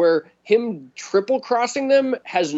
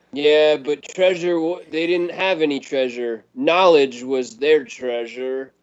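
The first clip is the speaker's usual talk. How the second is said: mock profound; 3 semitones lower than usual. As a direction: intone it like a fake-deep revelation. Mocking profound movie line.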